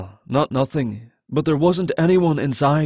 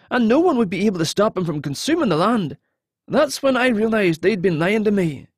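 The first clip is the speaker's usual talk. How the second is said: higher-pitched, earnest man; earnest captive confessing; 5 semitones higher than usual. Acted. Captive telling the hero of the necromancer's plan, earnest. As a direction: confess what you overheard, wanting belief. Narrator voices Alton confessing.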